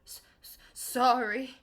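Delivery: stuttered, breathy sobbed apology; sobbing whisper. A narrator's reading. Hagrid apologising to McGonagall, sobbing. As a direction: choke out the sorry through tears. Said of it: "sobbed Hagrid".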